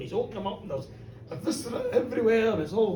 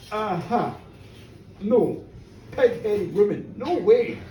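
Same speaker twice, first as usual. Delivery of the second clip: annoyed refusal; 3 semitones lower, 3 dB louder, slower than usual. Retold or imitated. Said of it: "they're all annoyed".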